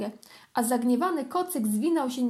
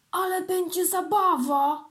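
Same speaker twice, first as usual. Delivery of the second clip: higher, louder kitten cry of joy; excited exclaim; 7 semitones higher, 4 dB louder than usual. Acted. Kitten exclaims to himself about his cousin's visit, excited. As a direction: burst out with delight. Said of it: "wykrzyknął kotek".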